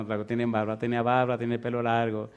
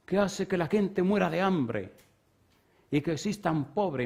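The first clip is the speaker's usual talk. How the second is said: angry teacher; 5 semitones higher than usual. Retold or imitated. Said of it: "así bien enojado".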